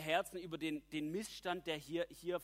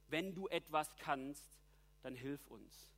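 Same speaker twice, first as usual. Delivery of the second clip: slow, hesitant, doubting ask, fading on the end; doubting plea; slower than usual. Retold or imitated. Preacher voicing the father's doubtful plea to Jesus, slow and unsure. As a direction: plead without real faith. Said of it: "absoluter Unglaube".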